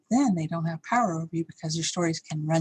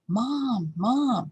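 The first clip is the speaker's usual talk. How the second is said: higher retold call for Mom; imitated yelling; 4 semitones higher than usual. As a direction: mildly mimic a dad calling down the hall. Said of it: "he was yelling".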